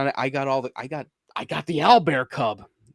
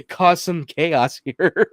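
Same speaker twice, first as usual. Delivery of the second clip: slow, relishing mischief; gleeful villain; 4 semitones higher, 6 dB louder, much slower than usual. Retold or imitated. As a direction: savor the evil plan. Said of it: "I just was like".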